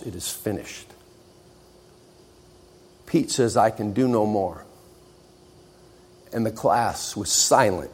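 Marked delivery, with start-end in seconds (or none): 0.0-0.9 much softer, near-breathless hush; Jesus's last words, spoken low; solemn final words. Acted. Jesus on the cross. 3.6-4.6 a collapsed student conceding; exhausted surrender. Acted. Pete collapses.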